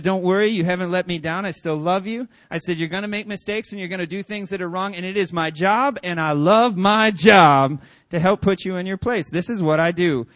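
loud, emphatic dad pep talk; acting out a father who loves his job; retold fatherly gusto. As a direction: build to a booming, relishing declaration. Father's exuberant speech, retold.

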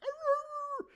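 loud high mock dog bark; dog growl. The dog reacting to the scene, a loud barking growl. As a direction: snarl like the dog.

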